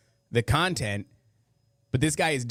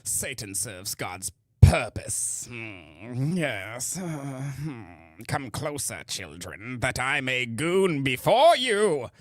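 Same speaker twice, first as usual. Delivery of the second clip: slow, relishing mock rabbi voice, drawing out each word; creepy imitation; much slower than usual. Host mocks rabbi saying Satan, slow and relishing. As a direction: savour every word like a creepy guru. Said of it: "I bet you he says it like that".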